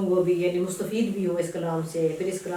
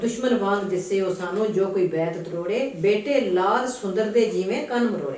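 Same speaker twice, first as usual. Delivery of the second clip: measured, emphatic poem reading; verse recitation. Acted. Reciter presenting a poet's couplet to a listener, verse recitation. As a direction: declaim the couplet line by line.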